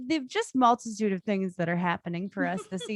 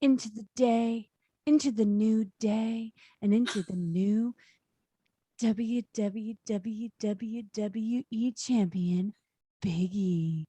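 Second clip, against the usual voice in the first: late night radio host. Acted. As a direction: ease in like a midnight radio host. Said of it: "like, radio host voice".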